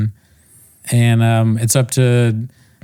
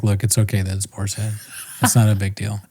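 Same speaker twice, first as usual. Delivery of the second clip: mock comforting husband; 2 semitones lower than usual. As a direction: pretend to console her while scolding. Tom comforting crying wife.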